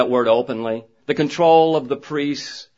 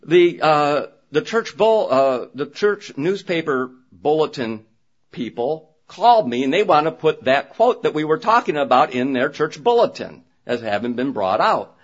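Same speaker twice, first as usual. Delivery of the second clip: quick, higher, mildly excited retelling; 4 semitones higher than usual. Retold or imitated. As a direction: rattle it off like her eager call, lightly imitated. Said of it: "She's all excited".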